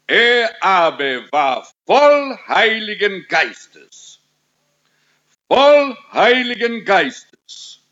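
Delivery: slow, weighty proclamation of scripture; emphatic preaching. Real, not acted. Preacher proclaims the verse about Stephen, emphatic preaching. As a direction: drive each key word home, slowly.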